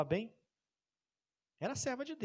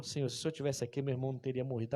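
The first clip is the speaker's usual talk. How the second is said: soft, humble plea; reverent tone; 4 semitones lower, 5 dB quieter, much faster than usual. Retold or imitated. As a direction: pray it quietly at his feet. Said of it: "mas com um tom diferente". (súplica reverente e baixa)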